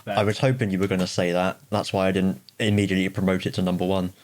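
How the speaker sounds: talking around a pen; words muffled by a pen held in the mouth. Real, not acted. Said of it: "Sorry, I got my pen in my mouth".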